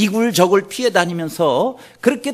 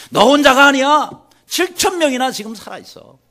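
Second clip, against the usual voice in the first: higher, louder cry of comfort; emphatic reassurance; 7 semitones higher, 6 dB louder than usual. Retold or imitated. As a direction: tell him firmly he is not alone. 하나님의 위로를 외침. (엘리야를 위로하는 하나님의 힘찬 목소리)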